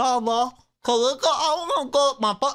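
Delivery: put-on high, slow babyish kid talk with speech impediment. Mocking how some kids talk to their parents, imitating kid with speech impediment. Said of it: "kids that talk like this? ... speech impediment".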